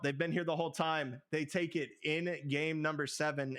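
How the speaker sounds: panting after the big call; out of breath. Real, not acted. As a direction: talk between breaths. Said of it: "I'm out of breath".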